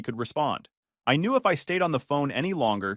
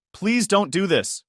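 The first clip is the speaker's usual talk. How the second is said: slow, higher, louder plea; begging; 7 semitones higher, 4 dB louder, slower than usual. A narrator's reading. Fiancée begging him on the phone not to leave, slow and high. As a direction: stretch it out, begging him to stay. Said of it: "she begged".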